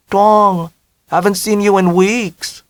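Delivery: put-on mother in a heavy Vietnamese accent, high. A narrator's reading.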